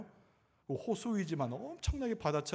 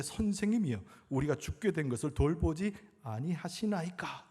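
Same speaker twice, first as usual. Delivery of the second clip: raised opening cry, then easing down; scripture quote read dramatically; 3 semitones higher than usual. Retold or imitated. Disciples waking their teacher in the storm, dramatic plea. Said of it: "이렇게 이야기했다는 거예요".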